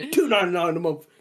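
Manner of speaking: lightly voiced advert price line; window advert imitation. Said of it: "that window one where it's like".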